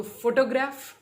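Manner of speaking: फोटोग्राफ with the beat on फोटो; teacher modelling first-syllable stress in फोटोग्राफ. Shown as a demonstration. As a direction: punch "फो" at the start of फोटोग्राफ. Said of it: "फोटो पे रहेगा".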